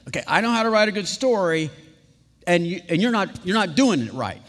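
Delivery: mock-smug correcting voice; a dash of contempt. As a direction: lecture the storyteller with light scorn. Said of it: "faith with a little dash of contempt".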